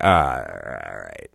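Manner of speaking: low mumble trailing away; retold resigned acceptance. Man told nobody will stop this, resigned fade. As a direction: give in, dropping low and fading out.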